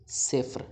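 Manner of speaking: "صفر" as sefr, f and r run together with no vowel between; correct pronunciation. Shown as a demonstration. Teacher models the Persian word for zero, "صفر" pronounced sefr. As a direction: say "صفر" as one syllable, sefr. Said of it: "صفر نہیں بولنا".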